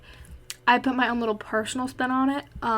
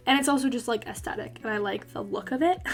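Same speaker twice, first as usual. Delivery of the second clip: breathless, short of air; talking while winded; out of breath; 3 dB quieter than usual. Real, not acted. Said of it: "Why am I so out of breath?".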